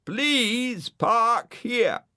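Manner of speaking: very slow, high, drawn-out please over the speaker; loudspeaker plea. Acted. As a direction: lure him in sweetly through a megaphone. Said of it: "said the loudspeaker".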